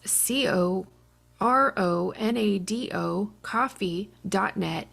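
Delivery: slow letter-by-letter spelling; spelled out. Shown as a demonstration. Sponsor read, spelling the web address slowly. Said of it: "head over to coronado coffee dot net".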